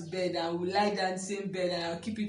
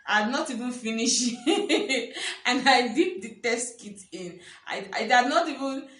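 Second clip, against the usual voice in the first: laughing through the words; giggling while telling it; real laughter bubbling up; 5 semitones higher, 5 dB louder than usual. Real, not acted. Excited retelling, laughing.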